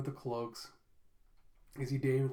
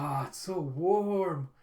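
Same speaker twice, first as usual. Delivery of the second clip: relieved sigh; 2 semitones higher, 4 dB louder, much slower than usual. Retold or imitated. Boy warms by fire.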